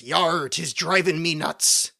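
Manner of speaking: slow, lightly growled pirate drawl; a hint of a salty old pirate, slowed down. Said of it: "And the pirate goes".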